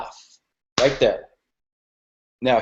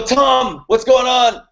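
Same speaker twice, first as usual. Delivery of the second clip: much higher, bright lifted phone greeting; very high resonance; 9 semitones higher, 4 dB louder, slower than usual. Shown as a demonstration. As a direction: greet Tom way up high, full of energy. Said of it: "It's a very high resonance".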